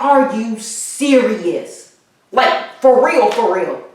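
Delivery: incredulous, drawn out at first; retold disbelief. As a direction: react as if you can't believe the news. Retold disbelief at another death.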